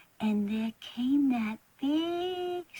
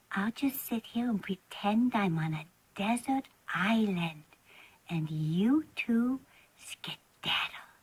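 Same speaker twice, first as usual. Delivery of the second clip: whisper; 5 semitones lower, 5 dB quieter than usual. Acted. Child pretending alone on island.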